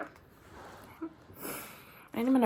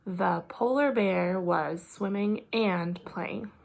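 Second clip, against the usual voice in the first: slow, word by word; slow careful reading; much slower than usual. Shown as a demonstration. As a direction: read it slowly, each word clear. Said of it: "So let's say it again".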